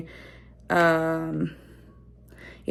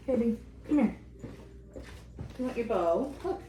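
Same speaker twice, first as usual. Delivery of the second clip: softer, higher hushed coaxing; 6 semitones higher, 11 dB quieter than usual. Real, not acted. Mom softly coaxes her baby with a bow, hushed.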